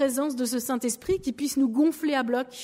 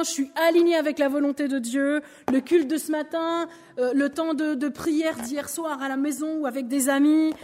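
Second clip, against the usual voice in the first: a lightly voiced happy churchgoer, pitched up; bubbly and content, playing the faithful woman after church; cheerful believer. Woman playing a believer after Sunday service, lightly beaming. Plays a believer feeling full.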